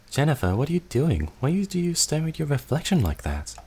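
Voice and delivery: put-on child asking the sister; young child. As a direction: ask like a puzzled little kid. Child voice in flashback.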